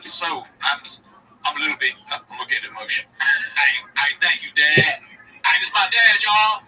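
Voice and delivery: lightly voiced podcaster thanking dad; mock sentiment, half-hearted emotion; Schultz impression. Mimicking a podcaster thanking his dad on camera, lightly voiced. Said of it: "Schultz is his character".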